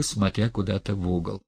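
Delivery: usual speaking voice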